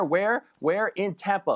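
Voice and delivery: rising excited "where? Where?" then a punchline "In Tampa"; hyped reveal. Real, not acted. Fan hyping friends on the Super Bowl location, excited. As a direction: build it up like a big reveal.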